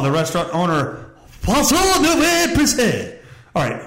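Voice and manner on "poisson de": high, slow stab at "Poisson de"; fumbling a French name. Real, not acted. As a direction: stumble through "Poisson de" as if unsure. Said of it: "how many fucking names do you need".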